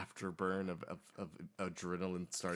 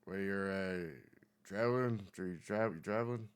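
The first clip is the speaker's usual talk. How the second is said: lightly voiced old diner man; a hint of a country old-timer; 3 dB louder than usual. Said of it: "he sees you guys come in and says".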